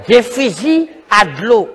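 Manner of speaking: slow, spaced-out "Des fusils à de l'eau"; deliberate repeat. Acted. Repeats the water-gun name deliberately.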